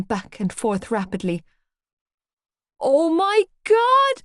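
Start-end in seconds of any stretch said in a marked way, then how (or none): 2.8-4.2 high, loud, slow terrified scream. A narrator's reading. Girl seeing the duvet move, screaming in fright. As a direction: let it rip, pure fright. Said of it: "I screamed".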